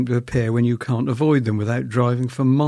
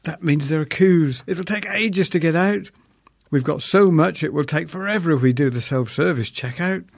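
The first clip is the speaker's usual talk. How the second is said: higher mock whine; whining; 5 semitones higher than usual. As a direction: whine about the queues, raised. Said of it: "I whined".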